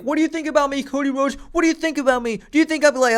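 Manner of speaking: fishing for approval in a mocking falsetto; hammed-up needy wrestler begging his rival for praise; mock Seth Rollins. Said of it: "he's like".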